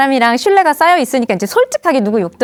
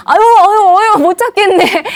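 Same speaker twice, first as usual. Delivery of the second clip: loud, high pretend struggle; exaggerated playful helplessness; hammed-up lovers' play; 8 semitones higher, 6 dB louder than usual. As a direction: feign failing to catch your sweetheart. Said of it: "남들이 볼 땐 되게 유치해".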